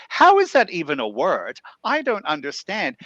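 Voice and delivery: baffled complaint at useless technology; frustrated disbelief. Retold or imitated. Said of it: "it's a frustrating thing for me".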